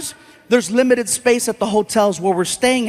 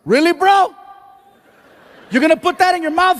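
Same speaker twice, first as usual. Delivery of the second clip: mock yell; 6 semitones higher than usual. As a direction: shout it across the room, hammed up. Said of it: "He starts yelling".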